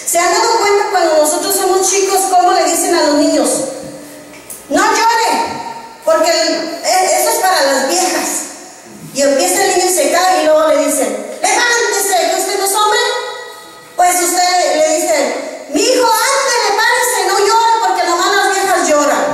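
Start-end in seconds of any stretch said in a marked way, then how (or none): 4.7-8.3 scolding parent. Retold or imitated. Preacher mimics parents scolding a crying boy, mock-stern. 11.4-13.0 higher-pitched mock parent barking at a boy; scolding parent. Preacher imitates a parent ordering a fallen boy up, higher and stern. 15.7-19.2 higher, sing-song parent urging a son up; coaxing parent. Retold or imitated. Preacher voices a parent telling a son to stop crying, higher.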